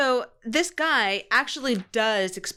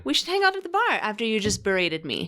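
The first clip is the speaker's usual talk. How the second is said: mock fake-friendly. Mocking Charlene's chirpy small talk.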